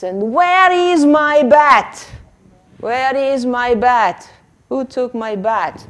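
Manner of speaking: mock-worried witch hunting her bat; witch asking. Shown as a demonstration. Teacher playing witch searching.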